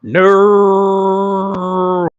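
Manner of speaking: crying out a fallen friend's name, loud and high; a sudden desperate cry of grief; anguished shout. Acted. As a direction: yell his name in horror. Player sees friend Seamus killed.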